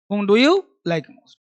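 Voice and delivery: whom do you like most spelled out word by word, very slowly; very slow model reading. Shown as a demonstration. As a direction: read it out slowly for the class. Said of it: "teacher models an example". (धीरे-धीरे पढ़कर समझाना)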